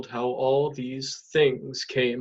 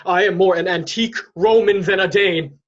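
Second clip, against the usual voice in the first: fierce resolve; 5 semitones higher, 5 dB louder, faster than usual. Acted. Horatio resolved to drink poison.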